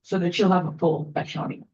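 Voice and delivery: shivering, shaky voice. Real, not acted. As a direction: voice shaking from the cold. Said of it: "my voice is shaking 'cause I'm freezing".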